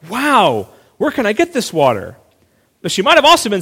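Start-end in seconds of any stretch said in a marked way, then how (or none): 0.1-2.2 bright, eager wonder, pitch lifted; amazed wonder. Shown as a demonstration. Woman at the well asks Jesus, wide-eyed and eager. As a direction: ask in genuine amazement. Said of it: "we tend to assume she's saying".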